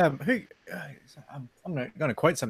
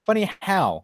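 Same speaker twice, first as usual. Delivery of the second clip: a touch higher, puzzled; mock puzzled; 8 semitones higher, slower than usual. Quoting his own reply to the guy, mildly puzzled. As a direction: ask it half confused. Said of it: "And I'm like".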